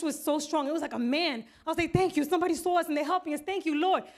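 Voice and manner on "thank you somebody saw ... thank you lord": higher, louder fervent thanks; relieved gratitude. Retold or imitated. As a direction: thank God with urgent relief. Relieved thanks to God for help.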